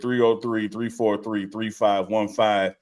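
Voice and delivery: "three five one five" said slowly, digit by digit; slow number read. Shown as a demonstration. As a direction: drop each digit slowly. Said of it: "reading out the phone number".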